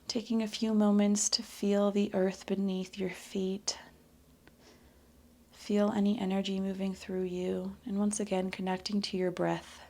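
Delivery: unhurried, slightly soft yoga meditation; guided meditation. Acted. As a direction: lead them gently back to the breath. Closing meditation on breath.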